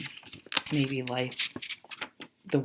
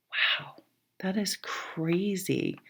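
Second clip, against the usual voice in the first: amazed whisper; 4 semitones higher, slower than usual. Real, not acted. Amazed at card spread.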